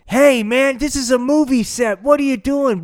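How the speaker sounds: high, loud hey man shout; angry stoner yell. Acted. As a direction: bark it at him high and loud. Stoner actor yelling at Slider.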